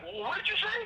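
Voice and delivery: retold shock, pitched high; indignant question. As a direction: ask as if you misheard an insult. Guard demands repeat, pitched up.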